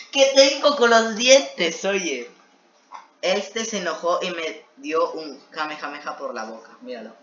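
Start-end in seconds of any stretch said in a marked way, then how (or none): 0.1-2.3 high, loud and slow; mock-despairing cry about the teeth again; incredulous outburst. Real, not acted. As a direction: stretch it out loud in amused disbelief. Laughing at own teeth obsession.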